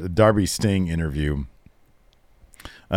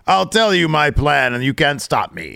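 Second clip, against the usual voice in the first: mad scientist; 4 semitones higher than usual. Pretend. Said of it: "supervillain plan".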